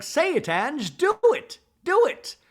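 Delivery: very high, loud imitated goading; mock shouted dare. Bronwyn daring Angie to say it, mock shouted dare. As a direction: yell it as a screeched challenge.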